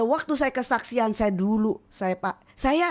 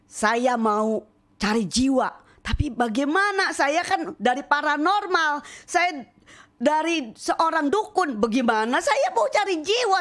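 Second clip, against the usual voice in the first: anxious thoughts; 4 semitones higher than usual. Retold or imitated. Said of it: "saya pikir".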